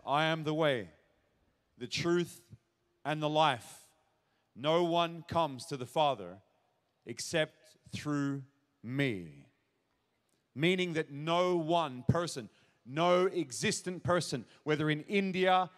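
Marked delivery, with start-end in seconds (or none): 0.1-9.4 gentler, unhurried scripture reading; calm, gentle. Retold or imitated. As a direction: say it calmly, leaving space between phrases. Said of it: "probably much more gentle ... just calmly".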